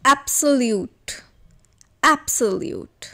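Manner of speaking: slow, careful absolute with the "ab" said as "ap"; slow pronunciation demo. Shown as a demonstration. Teacher showing class how to say absolute, slowly and clearly. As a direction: say absolute slowly, ap-so-lyute, each syllable clear. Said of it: "is the correct pronunciation".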